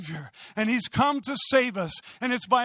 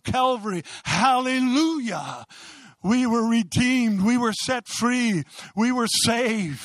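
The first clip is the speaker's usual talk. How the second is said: fervent, driving sermon delivery; impassioned preaching. Real, not acted. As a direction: preach it with conviction, stretching key words. Preaches at full force.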